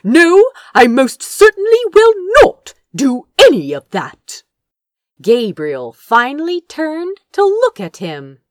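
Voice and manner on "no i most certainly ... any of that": high, loud, fast indignant refusal; firm refusal. A narrator's reading. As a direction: refuse outright, raised voice. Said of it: "said Azra firmly".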